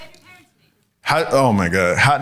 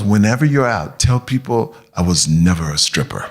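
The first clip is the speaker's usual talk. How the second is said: mom's voice; 8 semitones lower than usual. Retold or imitated. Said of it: "She goes".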